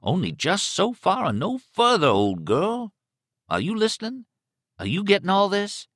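killer's voice rising high in places; menacing killer. Acted. Killer warns his captive, menacing. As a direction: lean on the captive, pitch jumping up.

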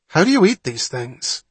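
loud, high outburst of helpless confusion; cried out. A narrator's reading. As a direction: blurt it out to the whole pavilion. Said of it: "Wapner cried".

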